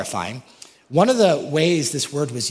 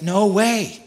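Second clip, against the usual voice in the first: higher, louder No way; mock Paul brushing them off; casual retort; 7 semitones higher, 4 dB louder than usual. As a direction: snap it back dismissively.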